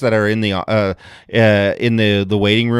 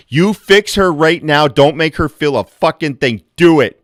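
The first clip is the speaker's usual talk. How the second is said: demanding husband; 4 semitones higher, 4 dB louder than usual. Retold or imitated. Husband demanding the doctor fix his wife, loud. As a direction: order the doctor around.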